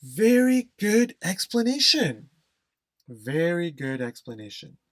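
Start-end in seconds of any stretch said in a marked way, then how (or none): 0.0-2.3 loud, high, enthusiastic praise; emphatic praise. Shown as a demonstration. Teacher loudly praising a student's answer, enthusiastic. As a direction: cheer the explanation out.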